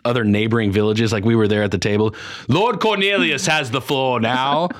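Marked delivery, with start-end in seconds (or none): 2.5-4.7 slow, stately put-on chairman's voice; hammed-up colonial speaker giving someone the floor; mock assembly chairman. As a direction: preside over the old colonial meeting, slow and grand.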